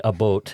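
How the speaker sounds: "a boat" said as the Canadian "about", rounded like "boat"; "a boat" with a Canadian long o in place of the ow; imitated Canadian "about". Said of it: "you saying".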